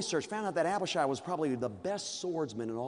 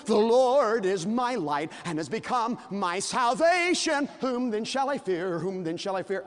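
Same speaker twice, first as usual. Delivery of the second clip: boastful David; 5 semitones higher, 5 dB louder than usual. Acted. David boasting, reciting psalm.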